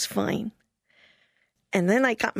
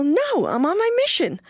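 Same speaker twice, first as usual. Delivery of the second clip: higher, louder, emphatic no; strict refusal; 7 semitones higher, 3 dB louder than usual. Retold or imitated. Missionary refusing the mission president, louder. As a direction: refuse flatly, raised voice. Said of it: "And I go".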